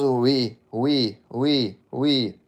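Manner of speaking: mock French accent, lilting; hammed-up French accent with swooping oui-ouis. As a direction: put on a sing-song French accent. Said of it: "that's me doing a French accent".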